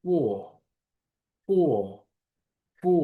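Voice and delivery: ফো as a single syllable, no final R; firm model "fo" for four, opened on a pure F; F-sound demo. Shown as a demonstration. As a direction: repeat ফো separately, with pauses between. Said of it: "but উচ্চারণ কি হচ্ছে?".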